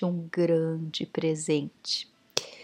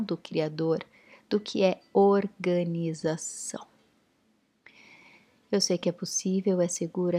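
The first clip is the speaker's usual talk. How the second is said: guided meditation. Acted. Guides a Theta Healing session.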